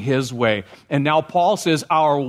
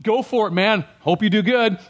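higher, breezy offhand pep talk; casual brush-off; 6 semitones higher than usual. Pretend. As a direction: toss it off like a careless buddy. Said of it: "He didn't just say".

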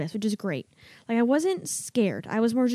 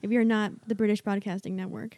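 mock British accent; 2 semitones lower than usual. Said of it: "Should we all talk like this".

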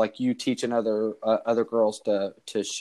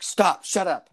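higher-pitched mock scolding; imitating annoyed wife; 8 semitones higher, slower than usual. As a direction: snap it lightly, as a cross wife would. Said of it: "she kinda got mad at me".

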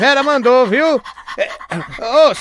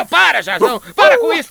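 scolding the dog; 6 semitones higher, faster than usual. Acted.

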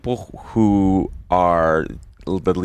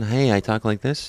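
Michael Corleone; 2 semitones higher than usual. Retold or imitated. Showing how the actor talked before, restrained impression. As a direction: do a restrained impression of the early roles. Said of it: "He was like Michael Corleone".

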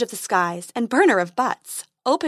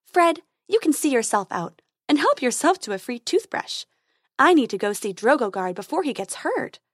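lightly higher, brisk fairy voice; fairy dentist dismissing Fred, brisk and lightly higher; tooth fairy Dentina; 4 semitones higher, 3 dB louder than usual. Acted. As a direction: hurry off with a kindly fairy lilt.

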